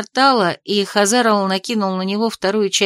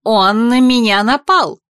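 louder, slow accusing cry; exclaimed; 5 dB louder than usual. A narrator's reading. Mother accuses the investigator to her son, loud. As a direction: complain loudly about him. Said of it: "воскликнула она".

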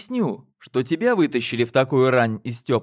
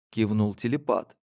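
ordinary delivery

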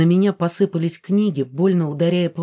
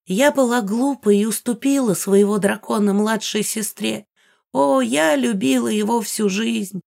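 put-on old woman voice; 4 semitones higher than usual. Ghost recalls lost love.

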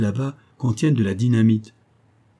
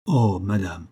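slightly lowered man's voice, understated; low voice; 2 semitones lower, slower than usual. A narrator's reading. Boatman replying to the anxious mother, low voice. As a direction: answer in a gently lowered character voice. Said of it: "reprit Gondet de sa voix basse".

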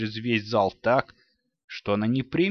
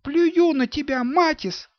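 put-on high girl's shout after him; last defiant cry at the closing door; последний дерзкий крик девочки; 4 dB louder than usual. A narrator's reading. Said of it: "ещё раз крикнула Рони".

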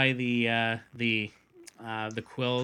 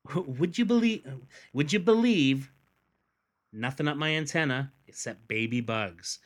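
half-remembered take on a hapless spy, pitched up at the start; Maxwell Smart voice; 2 semitones higher than usual. Retold or imitated. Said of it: "in my best Maxwell Smart voice".

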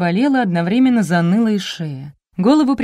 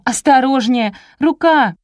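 pained shout; 7 semitones higher, 5 dB louder, slower than usual. A narrator's reading. Heroine in pain yelling at rescuers.

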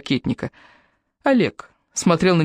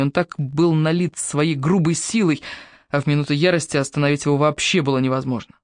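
ordinary delivery, nothing marked

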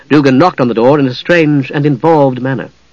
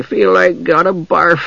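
very slow, high, queasy creature; sickly simpleton drawl; thick-voiced gully dwarf; 5 semitones higher, slower than usual. A narrator's reading. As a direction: drag it out thickly, pitched up. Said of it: "the gully dwarf said thickly".

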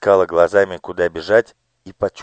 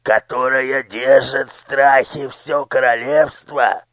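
higher, slow scheming courtier; lightly voiced minister; 6 semitones higher than usual. Minister taunting the fat official, slow and higher. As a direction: voice the villain slowly, a touch higher. Character voice in the story.

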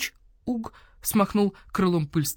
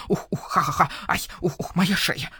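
laughing then pained. Acted. Owl laughs, cricks neck.

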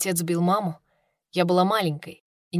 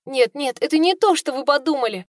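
торопливо; 6 semitones higher, 3 dB louder than usual. Acted. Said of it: "затрясла головой служанка".

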